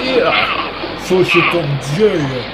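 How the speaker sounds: loud, drawn-out excited yelling; excited shout. Real, not acted. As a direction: cheer over the chaos. Cheering during chaotic fight.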